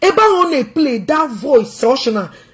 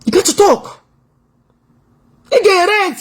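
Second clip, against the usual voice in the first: mock crying; 8 semitones higher than usual. Real, not acted.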